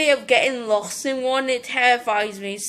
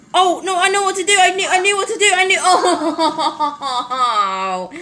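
frustrated outburst; 3 semitones higher, 4 dB louder than usual. Real, not acted. Frustrated at failing in game.

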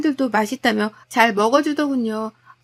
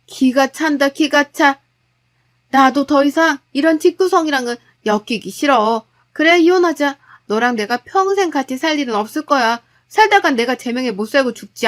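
firm, heated wife, louder in bursts; angry wife; 4 dB louder than usual. Acted. Wife demanding divorce from her husband, angrily decisive. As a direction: lay down an angry ultimatum.

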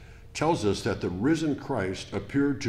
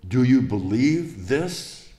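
slow, louder searching question, rising at the end; Jesus asking earnestly; 3 semitones higher, 6 dB louder, slower than usual. Acted. Preacher voicing Jesus questioning Martha, slow and earnest. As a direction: lean in and ask it slowly, weighing each word. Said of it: "he says".

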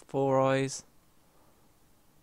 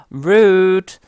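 loud, higher burst of outrage; indignant shout; 5 semitones higher, 13 dB louder than usual. Real, not acted. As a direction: yell it at the player who got you. Outraged at being hit.

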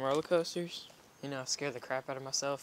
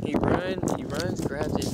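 excited; 3 semitones higher, 8 dB louder, slower than usual. Real, not acted. Excited commentary of dog.

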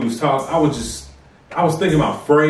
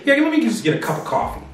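ugly mocking voice; 8 semitones higher, faster than usual. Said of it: "they be so ugly when they say".

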